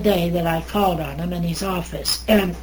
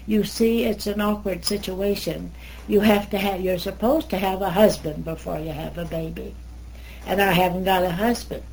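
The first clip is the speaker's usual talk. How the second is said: soft tone; 3 dB quieter than usual. Retold or imitated. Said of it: "in a soft tone".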